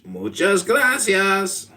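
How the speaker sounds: high, drawn-out mock Hispanic thanks; playful exaggerated Hispanic accent. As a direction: stretch it out in a hammed-up Hispanic accent. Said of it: "can you do a Hispanic a-, accent".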